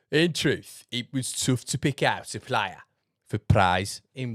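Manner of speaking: reading the article in a slight Australian lilt; news read with a drifting Australian accent; half-slipped Australian newsreader voice; accidental Aussie. Acted. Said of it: "Don't know why I turned Aussie then".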